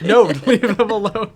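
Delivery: laughing plea. Retold or imitated. Player protecting the sad character, laughing high plea. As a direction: protest through giggles. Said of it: "I'm like".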